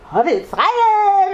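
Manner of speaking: high, loud, drawn-out exclamation; hammed-up delighted high shout; excited child. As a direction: imitate a thrilled little boy crying out. Obsessed child exclaims at gift.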